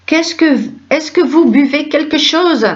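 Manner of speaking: asks again, pitched high and calling out; shouting. Acted. Host asks for drinks a third time, shouting. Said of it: "Qu'est-ce qui te prend de crier comme ça?".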